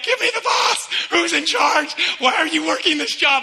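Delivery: angry customer yelling for the boss; mock yell. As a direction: demand the manager at full frustration. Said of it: "I was ready to scream".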